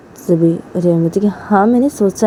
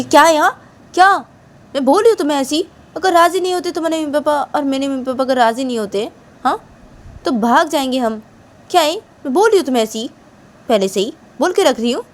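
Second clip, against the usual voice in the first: higher-pitched, peeved retort; acted raised-pitch indignation; indignant insistence; 5 semitones higher than usual. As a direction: push back and insist on the warning.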